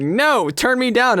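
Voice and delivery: high, drawn-out mock refusal; mock defiance; retold defiant retort. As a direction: push back high and slow, imitating a friend. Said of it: "you were like".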